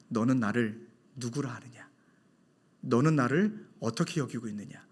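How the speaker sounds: soft, low, tender divine question; hushed voice of God. Shown as a demonstration. Preacher voicing God's gentle question to the congregation, hushed. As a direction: hush it like God asking gently. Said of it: "질문한다".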